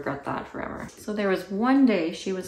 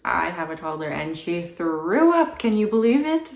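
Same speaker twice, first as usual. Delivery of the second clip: sarcastic mock; 7 dB louder than usual. Sarcastic parody of mother.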